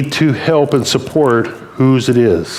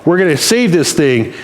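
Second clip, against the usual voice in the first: higher, confident take-charge boasting; swelling self-assurance, pitched up; prideful; 5 semitones higher than usual. Acted. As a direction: boast like the one who will save the day. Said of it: "how quickly I went to be prideful".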